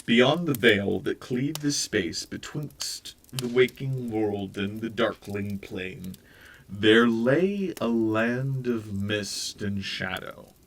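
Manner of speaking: slow, brooding storyteller voice; slow, foreboding read; ominous narration. A narrator's reading. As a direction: set a dark, menacing scene. Ominous netherworld scene narration.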